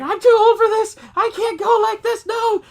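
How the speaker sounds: very high, loud crone whine; hammed-up granny voice; whiny old lady. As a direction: complain like a grumpy old woman. Old lady complains, retold.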